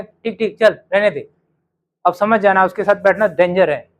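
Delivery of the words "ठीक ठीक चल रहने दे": dismissive, muttered "ठीक, ठीक"; a rude kid waving it off; rude dismissal. Shown as a demonstration. Told to avoid Hindi, a rude student brushes it off. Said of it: "असभ्य क्या कहे".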